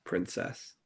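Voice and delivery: low intimate whisper, meant to make her blush; whispered pet name. Shown as a demonstration. Partner demonstrates to his girlfriend, a whispered pet name. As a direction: breathe "Princess" out in a soft whisper. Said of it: "even if I was to just go".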